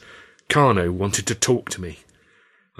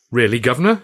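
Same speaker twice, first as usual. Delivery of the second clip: taken aback; 2 semitones higher, 5 dB louder than usual. Acted. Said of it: "I said, taken aback".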